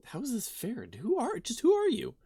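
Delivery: building from indignant to shouting; rising outrage. Acted. Player character demanding answers.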